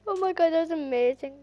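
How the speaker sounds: very high, slow, laughing squeal; laughing delight. Real, not acted. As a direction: squeal through laughter at the win. Laughing delight at pet chicken.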